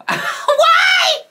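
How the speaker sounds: high, loud laughing cry; laughing outburst. Real, not acted. Laughing at her old video's sentence endings, a high loud cry. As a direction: burst out laughing mid-question.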